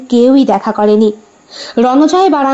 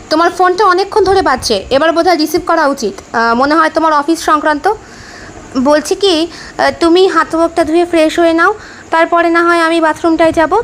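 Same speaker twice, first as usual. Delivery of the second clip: lightly voiced husband, pitched up; a hint of polite, tentative suggestion, higher; considerate husband; 4 semitones higher than usual. Husband tells wife her phone is ringing, lightly voiced polite suggestion.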